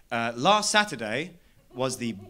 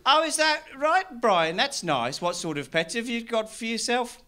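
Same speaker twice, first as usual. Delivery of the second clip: bumbling local; 8 semitones higher than usual. Retold or imitated. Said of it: "conversations like".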